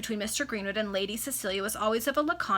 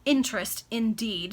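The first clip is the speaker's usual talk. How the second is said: mocking; 5 dB louder, slower than usual. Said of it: "a tone of raillery".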